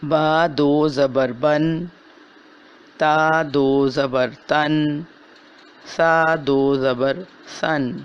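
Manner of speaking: slow, careful spelling of each letter with two zabar; slow recitation drill. Shown as a demonstration. Teacher drilling tanween syllables for students, slow. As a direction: recite بن، تن، سن slowly and clearly. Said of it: "حرف کے ساتھ نون ساکن کی آواز".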